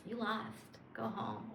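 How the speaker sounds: soft, smug, self-satisfied taunt; smug tease. Pretend. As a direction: gloat quietly like a winner. Smug winner voice.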